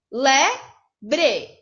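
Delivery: Lebre split into leb and re; syllable-split lebre. Shown as a demonstration. Teacher showing how to split lebre. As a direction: break Lebre into two parts. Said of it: "Separa em duas".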